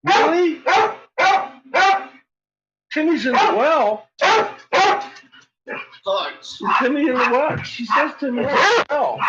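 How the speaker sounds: mock urgency to the dog; high playful Timmy-in-the-well bit; high pet voice. Real, not acted. Playing Lassie game with dog.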